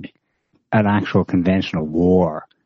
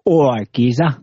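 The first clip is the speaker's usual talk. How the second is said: mock London geezer; 4 semitones higher than usual. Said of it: "voice recordings of them going".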